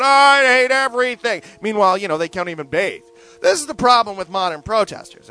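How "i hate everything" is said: slow, sulky sign-waver moan, higher and louder; mock homeless protester. Mocking a homeless protester who hates everything, slow and whiny. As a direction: drag it out like a bitter street protester. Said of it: "waving a sign around going".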